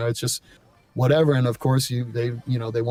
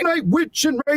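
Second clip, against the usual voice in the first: That singer's style. Shown as a demonstration. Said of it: "that singer kind of thing".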